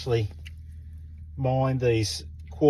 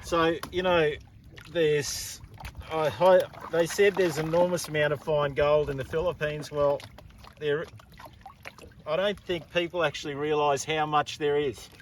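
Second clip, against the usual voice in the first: muffled behind a mask; talking through a face mask. Real, not acted. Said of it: "Sorry about the face mask".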